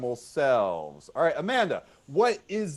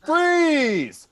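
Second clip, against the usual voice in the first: loud, high call of freeze; host halting the improv scene, shouting; yelled freeze; 11 semitones higher, 8 dB louder than usual. Real, not acted. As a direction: stop the scene with a sharp yell. Host yells freeze as announced.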